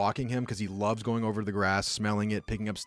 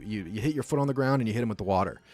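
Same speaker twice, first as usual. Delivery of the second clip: usual speaking voice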